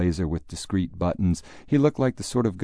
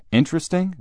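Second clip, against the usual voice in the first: much higher, louder disbelieving repeat; incredulous echo; 12 semitones higher, 4 dB louder than usual. Acted. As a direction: throw the word back in disbelief. Father throws Jim's word back.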